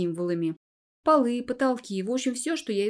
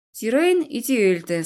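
calm, slightly mocking; 2 semitones higher, 5 dB louder, slower than usual. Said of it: "спокойно, даже чуть насмешливо".

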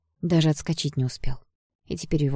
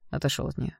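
quiet command; 6 dB quieter than usual. Acted. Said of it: "велел он блондину".

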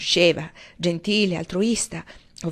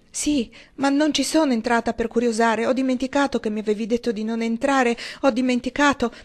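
anxious protest; 4 semitones higher than usual. Acted. Valency defending herself anxiously.

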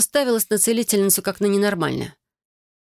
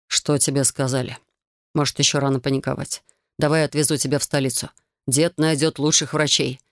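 заботливый муж; 4 semitones lower than usual. Acted. Муж бережно успокаивает жену.

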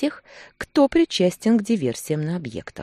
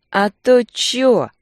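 loud, higher, slow drugged-up thug; picking a fight; 7 semitones higher, 8 dB louder, much slower than usual. A narrator's reading. Drugged thug provoking the husband, loud and slow. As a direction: push for a fight, stretching every word. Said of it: "нарывался он".

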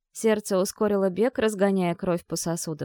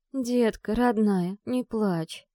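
pitying; 2 semitones higher, much slower than usual. Acted. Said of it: "жалостливо начала успокаивать".

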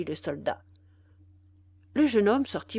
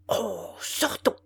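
angry cry; slower than usual. A narrator's reading. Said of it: "cria le soldat enflammé de colère".

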